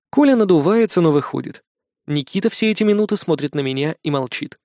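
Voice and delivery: usual speaking voice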